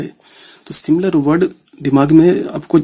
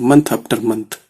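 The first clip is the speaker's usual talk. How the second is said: month after month drawn out word by word; spelling out month after month for students; slow dictation; 3 semitones lower, much slower than usual. Shown as a demonstration. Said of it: "ये लिखने का मतलब इसके बाद same चीज इसको हम repeat कर रहे हैं।".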